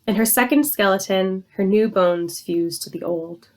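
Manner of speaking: measured, even poem recital; poetry reading. Acted. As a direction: read your poem aloud, line by line, with falling endings. Reads second poem aloud.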